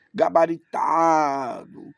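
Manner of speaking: drawn-out, showy boast; mock know-it-all. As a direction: stretch it slowly, puffed up like an expert. Mocks a show-off scholar.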